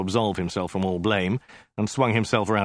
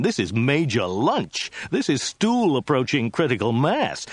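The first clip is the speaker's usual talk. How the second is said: exasperated rant; 5 semitones higher than usual. Acted. Zaphod rants, rising exasperation.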